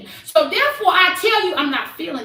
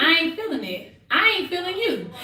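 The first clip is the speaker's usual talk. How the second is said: softer, even "I ain't feeling it"; calm, flat statement; 5 dB quieter than usual. Shown as a demonstration. Woman showing friends her calm way of saying it, softly. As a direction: say it plainly, no heat. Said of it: "I can say it just like that".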